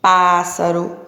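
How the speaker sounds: Pássaro with a crisp hissing S sound; clear teaching word. Shown as a demonstration. Teacher showing children: Pássaro said with a clear S. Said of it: "S S com som de S".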